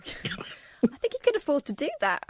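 co-host whispering a wry joke aside. Real, not acted. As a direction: whisper it through a laugh. Laughing aside.

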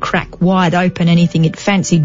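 put-on a light Australian accent on the quote; lightly voiced Australian professor; half-hearted Australian accent for a quoted scientist. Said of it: "I'm gonna do the Australian accent".

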